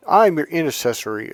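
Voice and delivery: pastor voice. Retold or imitated. Vlogger mocking pastors to viewers, lightly pompous. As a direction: put on a self-important pastor. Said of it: "this is what these pastors and priests are doing".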